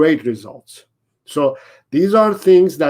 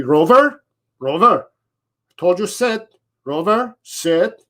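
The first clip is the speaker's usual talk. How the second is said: high, nagging repeated calls; mock frustrated owner; 4 semitones higher than usual. Trainer mocking the owner's impatient repeats, nagging. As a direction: play an owner losing patience with the dog. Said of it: "You say".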